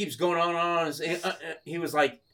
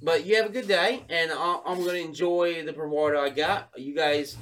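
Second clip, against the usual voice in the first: lightly put-on English bloke; polite sign-off in mock English accent. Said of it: "like, an English guy".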